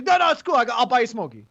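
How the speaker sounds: interrupting. Retold or imitated. Friend mimicking him pestering the stranger, interrupting. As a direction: imitate pushy talking over someone. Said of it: "you're just interrupting him".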